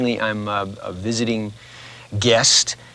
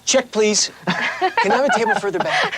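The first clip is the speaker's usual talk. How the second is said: higher-pitched mock customer; joking restaurant patron; 13 semitones higher, 3 dB louder than usual. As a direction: pretend to flee the act as a diner. Mock diner reacting to her accent.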